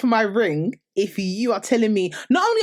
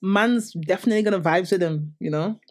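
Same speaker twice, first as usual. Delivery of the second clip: attempted Toronto accent; 3 semitones lower than usual. Shown as a demonstration. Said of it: "I like the Toronto accent".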